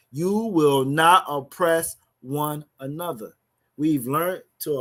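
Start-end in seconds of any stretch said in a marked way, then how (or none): 0.1-3.3 slow, every word weighed; emphatic scripture reading. Shown as a demonstration. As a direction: lay the emphasis down slowly, word by word. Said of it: "He, he put emphasis on that".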